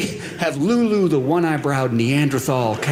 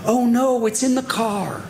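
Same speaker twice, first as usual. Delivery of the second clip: panicked wife; 5 semitones higher than usual. Retold or imitated. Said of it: "my wife panics and goes".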